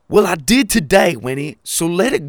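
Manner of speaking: loud, high defensive snap. Acted. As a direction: push back, annoyed.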